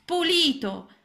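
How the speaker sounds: very high, jeering frog voices; mocking frog kids. A narrator's reading. Teasing frogs jeering at clean Ranuncolo, high sneer. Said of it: "dicevano i ranocchi".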